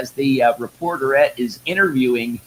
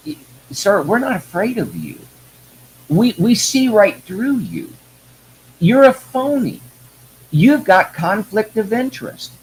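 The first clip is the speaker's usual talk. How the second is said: raised, impassioned rant at a high pitch; 4 semitones higher than usual. Real, not acted. Addressing Merrick Garland in a raised, furious rant. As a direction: hammer him with rising outrage. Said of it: "folks, I rant".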